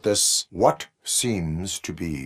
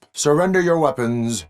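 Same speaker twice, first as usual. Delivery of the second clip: loud, high-pitched police order; raised-voice command; commanding shout; 9 semitones higher, 5 dB louder than usual. Acted. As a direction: call out the order to surrender with force. Officer orders surrender of weapons.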